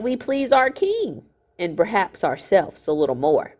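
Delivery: a hint of a smug old miller, gloating; lightly voiced miller. Miller gloating at the boy, smug voice. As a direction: play the scheming miller, lightly.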